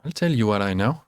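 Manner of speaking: lightly voiced, solemn bison elder; a hint of a grave old spirit; big bison. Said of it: "says the big bison".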